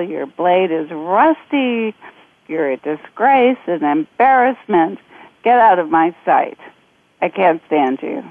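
scornful dismissal of the samurai; contemptuous, looking down on him; utter disdain. Acted. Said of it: "he said with utter disdain".

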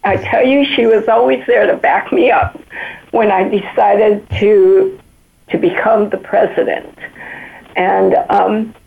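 emotional, recovering from tears; after crying. Real, not acted. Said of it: "I'm getting teary-eyed".

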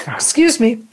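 strained after coughing; choking on a drink. Real, not acted. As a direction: speak through a choking throat. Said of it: "I am choking".

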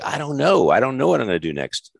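mock clueless. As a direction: plead ignorance in a high voice. Host retells his flustered on-air reply.

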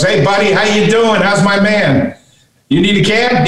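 lightly voiced valet. Valet hails his buddy Sean, lightly voiced greeting. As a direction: lightly act out a valet hailing a pal. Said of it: "points to him and goes".

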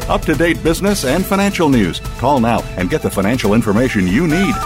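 infomercial. Acted. Recorded business network promo.

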